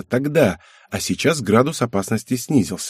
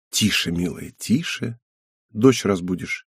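soft, lowered bedtime hush; gentle hushing; 3 semitones lower, 5 dB quieter, slower than usual. A narrator's reading. Husband shushing his wife as their daughter sleeps, softly hushing. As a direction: drop the volume so the child stays asleep.

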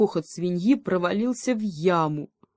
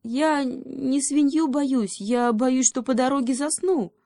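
high, slow drowsy hedgehog voice; sleepy hedgehog; 8 semitones higher than usual. A narrator's reading. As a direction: drag it out like a hedgehog fighting sleep. Hedgehog figure. (сонный ёжик, высоко и медленно)

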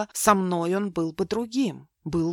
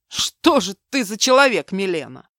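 stunned outcry; 7 dB louder than usual. Acted. Mark stunned by her love.

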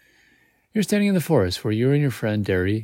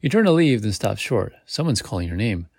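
ordinary delivery

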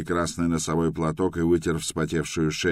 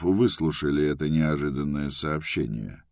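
plain reading voice

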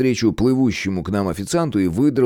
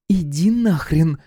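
much higher, slow furious snap; barked retort; 9 semitones higher, slower than usual. Acted. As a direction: bite his head off. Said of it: "рявкнула она".

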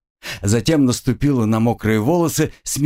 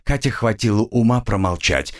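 ordinary delivery

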